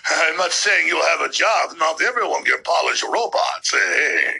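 loose mock German villain accent; Klaus Schwab. Host parodying a globalist leader's job promise, rough German accent. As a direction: do a half-hearted German Bond villain. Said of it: "that's not a very good German accent".

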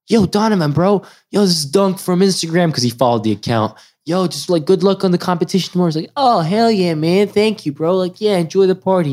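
high, excited fan voice; meeting a basketball star, high and excited; hyped-up greeting. Retold or imitated. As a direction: pitch it up like a starstruck fan.

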